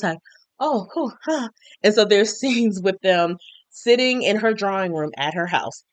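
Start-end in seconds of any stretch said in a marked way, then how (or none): 0.6-1.5 high, soft flustered exclamations; flustered interest. Retold or imitated. Widow reacting to a new suitor, imitated flustered interest.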